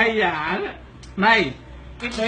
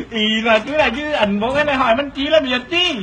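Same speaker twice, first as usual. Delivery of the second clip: explaining through leftover laughter; words coming out of a laughing fit. Real, not acted. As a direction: struggle to explain while close to tears from laughing.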